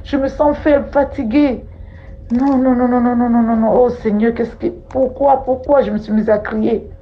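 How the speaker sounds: lamentation aiguë et affolée, la voix plus haute; gémir de peur, comme dépossédée; plainte affolée. Retold or imitated. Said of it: "je crie à ma copine". (plainte affolée rejouée, plus aiguë)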